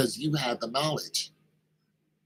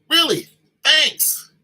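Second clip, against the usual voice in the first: put-on amazed kid; 12 semitones higher, 8 dB louder, slower than usual. Kid thrilled by a fact.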